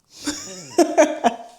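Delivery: sudden high airy laugh; breathless nervous laugh; burst of laughter. Real, not acted. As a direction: laugh it off, caught out. Surprise confession laugh.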